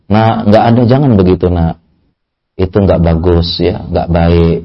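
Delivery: a lightly played gentle parent; soothing parent. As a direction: coax the child gently, like a parent stroking its head. Caring parent advising a child.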